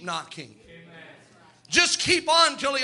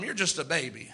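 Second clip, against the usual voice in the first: softer, as if said to a neighbour; quiet aside; 7 semitones lower, 7 dB quieter than usual. Shown as a demonstration. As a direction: say it softly to the person beside you. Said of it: "Turn to somebody and tell him".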